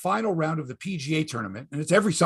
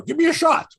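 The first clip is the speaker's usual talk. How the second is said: mock player; 12 semitones higher, 5 dB louder than usual. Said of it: "They go".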